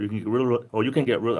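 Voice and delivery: hurried, words tumbling over each other; talking too fast, restarting mid-phrase. Real, not acted. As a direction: rush it and trip over the words. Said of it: "I'm talking too fast, like a Rhode Islander".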